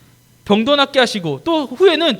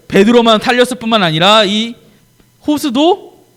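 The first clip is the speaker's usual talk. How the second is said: ordinary delivery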